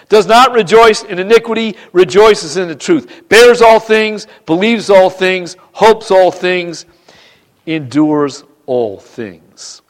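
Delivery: slow, phrase-by-phrase verse recital; emphatic scripture reading. Real, not acted. Preacher reading the love chapter to church, slow and emphatic. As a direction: land each clause deliberately, easing down at the end.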